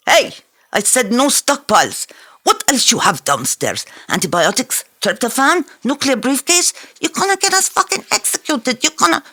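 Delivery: high, loud furious rant; angry shout. Acted. Musa scolding Fareed about the stockpiles, shouting angrily. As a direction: tear into him, voice climbing.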